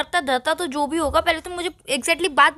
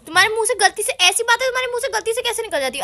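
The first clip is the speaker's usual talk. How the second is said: indignant; 5 semitones higher than usual. Acted. Girlfriend confronts boyfriend, angry.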